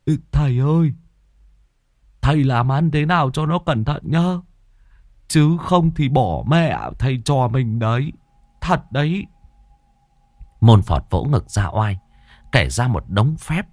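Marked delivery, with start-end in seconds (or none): 0.0-9.2 higher, worried servant voice; fretting henchman. A narrator's reading. Lâm Sẹo fretting to his master, higher and worried. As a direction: fret to your master, pitched up. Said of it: "mà than thở".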